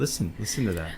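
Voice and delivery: soft, hushed product demo voice; mock ASMR influencer. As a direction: imitate an ASMR creator, hushed. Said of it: "Like the A S M R".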